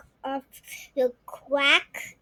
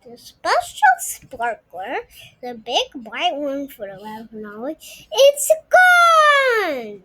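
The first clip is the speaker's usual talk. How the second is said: alarmed mom; 8 dB louder than usual. Acted. Mom realizing the special sparkler is gone, rising to a cry. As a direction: let the alarm rise.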